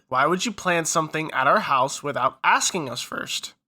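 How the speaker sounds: mild calm; level, even question; a hint of calm; calmly, retold.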